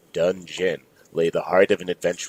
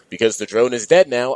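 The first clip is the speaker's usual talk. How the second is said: yelling; 5 semitones higher, 6 dB louder than usual. Acted. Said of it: "yelled Dan Harmon".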